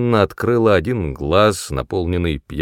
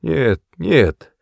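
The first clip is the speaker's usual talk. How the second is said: soft refusal; 6 semitones higher, 4 dB louder than usual. A narrator's reading. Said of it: "отнекивалась она мягко".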